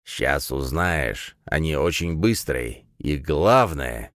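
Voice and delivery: put-on drawn-out ominous old man warning; old prospector.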